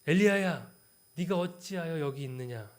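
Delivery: loud scolding call of the name; rebuking call. Shown as a demonstration. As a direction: bark the name out like a reproach. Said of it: "이 구절을 잘 읽어야 합니다".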